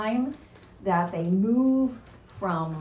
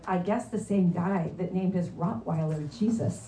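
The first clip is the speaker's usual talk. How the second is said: chuckling as the joke lands; laughing through punchline; 2 semitones lower than usual. Real, not acted. Preacher delivering the parrot joke's punchline to the congregation, laughing. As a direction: let the laugh leak into the words.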